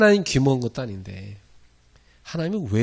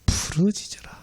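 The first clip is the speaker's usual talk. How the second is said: whisper; 8 semitones higher than usual. Shown as a demonstration. Preacher whispering God's command to the congregation. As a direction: hush it like a secret call.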